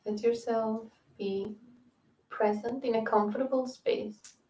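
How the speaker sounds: unhurried yoga nidra guidance; calm guiding voice, phrase by phrase; guided meditation. Real, not acted. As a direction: ease them into rest with spacious pauses.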